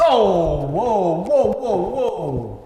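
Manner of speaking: loud stunned whoa; surprised. Real, not acted. Surprise at Trevor Lawrence pick.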